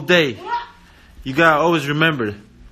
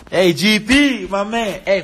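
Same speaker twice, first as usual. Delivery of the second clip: excited greeting; 5 semitones higher, 6 dB louder, slower than usual. Real, not acted. Greeting a player on camera.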